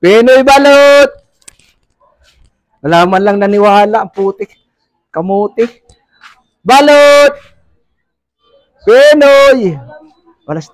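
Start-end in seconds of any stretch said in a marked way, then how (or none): 0.0-1.1 hawker's shout out to the street; vendor's call. Real, not acted. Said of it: "sa pagsigaw ko". 6.6-9.8 hawker's shout out to the street; vendor's call. Real, not acted. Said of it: "sa pagsigaw ko".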